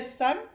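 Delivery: सन with a quick short u; short u in sun. Shown as a demonstration. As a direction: clip the u in सन. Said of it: "short sound है". (छोटी ध्वनि में सन)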